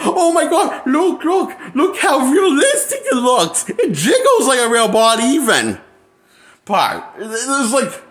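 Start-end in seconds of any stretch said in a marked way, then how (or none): 0.0-5.8 mock delight. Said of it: "They're like".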